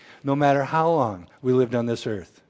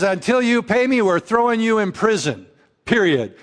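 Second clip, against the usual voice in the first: angry creditor; 6 semitones higher than usual. Acted. Preacher acting the unforgiving slave threatening his debtor, angrily. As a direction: bark the demand at the debtor.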